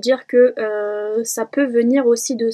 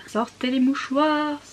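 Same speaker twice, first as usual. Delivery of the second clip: mock dramatic; 3 semitones higher than usual. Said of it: "Très triste".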